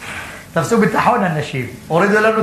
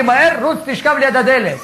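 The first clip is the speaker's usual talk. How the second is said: wife panicking; 4 semitones higher than usual. Retold or imitated. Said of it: "אומרת לי".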